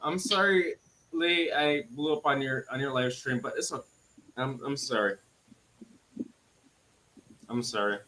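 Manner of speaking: quiet apology. Real, not acted. Calming down after blowup.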